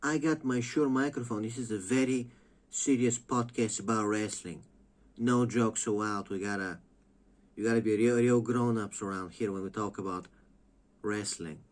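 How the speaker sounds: lightly voiced, smug mock seriousness; a hint of a solemn podcaster lecturing; mocking a serious podcaster. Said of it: "he's like".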